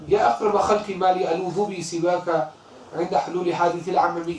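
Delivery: quick, rhythmic recitation of classical Arabic verse; Arabic verse recited fast; poem recitation. Acted. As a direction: recite the couplet in flowing chant. Recites Burda line.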